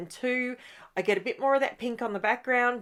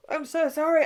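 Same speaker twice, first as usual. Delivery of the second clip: high words still mid-yawn; talking through a yawn; 7 semitones higher, 4 dB louder than usual. Real, not acted. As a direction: apologise while yawning. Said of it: "I just yawned".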